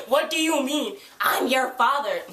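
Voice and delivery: incredulous echo. Retold or imitated. Fan disputing Valentine's fatherhood claim, incredulous echo.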